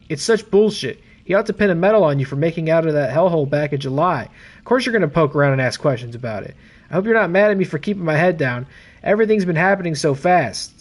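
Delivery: lightly acted buddy reading a note aloud; voiced colleague's message. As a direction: read it as a chummy police colleague. Reads Brad's message in character.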